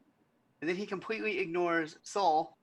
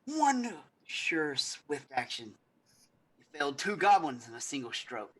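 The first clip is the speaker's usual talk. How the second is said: pompous noble. Acted. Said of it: "and he's like".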